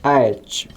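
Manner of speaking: "एच" opening on half uh, then ay, then ch; "एच" with a two-part vowel; correct English H. Shown as a demonstration. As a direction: glide uh into ay in "एच". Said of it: "आधा अ".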